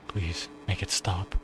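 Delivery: slow, soft choked begging; pained plea. Acted. Ayumu begging Nagi while being strangled, slow and soft. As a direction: beg faintly through a squeezed throat.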